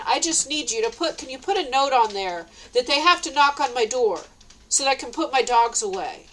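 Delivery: frustrated retold plea, emphatic; worked-up request, retold; mad. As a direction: insist with mild exasperation. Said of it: "I was mad".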